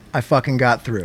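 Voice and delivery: low and hushed, almost to himself; hushed disbelief. Real, not acted. Telling his cohost the news in a hushed, stunned voice. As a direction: savor it quietly like you can't believe it.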